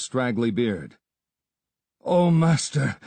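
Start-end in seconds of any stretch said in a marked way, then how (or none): 2.0-3.0 out of breath, voice pushed high and loud; panting. A narrator's reading. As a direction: gasp the words out as if you ran here. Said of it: "he panted".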